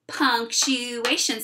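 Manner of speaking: Punctuation spoken very slowly, each syllable clear. Shown as a demonstration. Teacher modelling a new word: very slow. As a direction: draw it out for the class. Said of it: "Say it with me".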